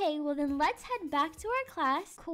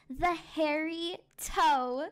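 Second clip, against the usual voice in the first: slow, spaced-out story title; drawn-out title announcement; slower than usual. Acted. Teacher unveils a Halloween story to class, drawn out. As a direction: linger on each word of the title.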